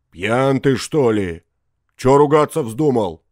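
taken aback by sudden abuse; astonished. A narrator's reading. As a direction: demand an answer in amazement. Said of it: "заговорил с изумлением лесник".

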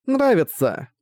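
put-on high child's answer; happy little girl.

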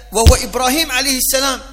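ordinary delivery

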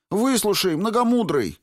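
high, loud desperate yell. A narrator's reading. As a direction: cry out to stop the dragon. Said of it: "завопил он".

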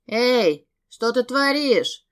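shouting. A narrator's reading. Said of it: "закричал парень".

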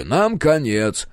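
drawn-out, slow deadpan ending; slow deadpan finish. Acted. Klaus cuts off the engineer with slow deadpan. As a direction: finish his sentence for him, slowly. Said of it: "закончил предложение Клаус".

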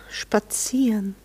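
drawn-out, whispered scorn; slow dismissive breath on spazieren; contemptuous. Acted. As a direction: let the word drip with contempt. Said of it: "so einen verächtlichen Ton hinein".

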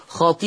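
خطيئاته with long ī, then a long ā after the hamza; stretched badal. Shown as a demonstration. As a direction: draw out both long vowels of خطيئاته. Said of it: "قرأ ورش بتثليث البدل". (خطيئاته بإطالة مدّ البدل)

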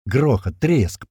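usual speaking voice

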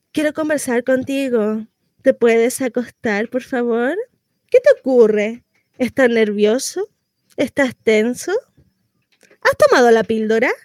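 low-pitched, careful questioning; gentle coaxing. Acted. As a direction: ease a nervous lover into talking. Role reversal, coaxing the man. (tono bajo, persuasivo)

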